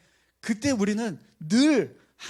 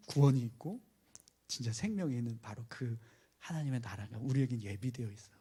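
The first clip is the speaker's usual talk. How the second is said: gentle encouragement; 4 semitones lower than usual. Retold or imitated. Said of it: "사도 바울은 계속해서 이야기하는 거예요".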